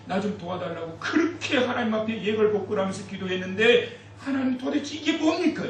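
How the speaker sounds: high pitched, pressing complaint to God; 원망을 쏟아내며 따지듯; 대드는 항의. Retold or imitated. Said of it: "하나님께 막 대들었대". (힘든 성도가 하나님께 대드는, 높고 격한 항의)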